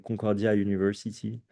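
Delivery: English name in an American accent. Shown as a demonstration. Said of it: "Je le fais avec mon accent américain".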